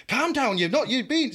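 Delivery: high, sing-song calm down; mock patronising calm. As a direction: mimic the wrong way to speak to him. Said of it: "Not like".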